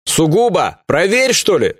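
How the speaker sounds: громкий оклик издалека; позвать товарища сверху; окликая сверху. Acted. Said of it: "окликнул Маздай сверху". (громко окликнуть)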